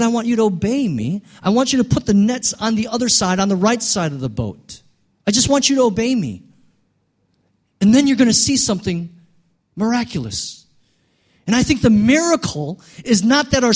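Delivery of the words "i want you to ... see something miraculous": raised, emphatic preacher's quote; Jesus urging obedience. Retold or imitated. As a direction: voice an insistent command, pitched up. Preacher voices Jesus' command to disciples.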